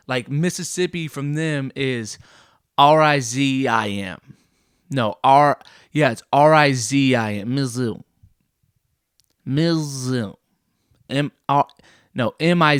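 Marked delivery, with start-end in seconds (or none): 2.8-7.5 spelling R I Z I M out slowly and loudly, letter by letter; slow mock spelling. Shown as a demonstration. Showing how Mississippians spell their state, slow and emphatic. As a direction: spell R I Z I M as a proud local. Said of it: "That's how they spell their state".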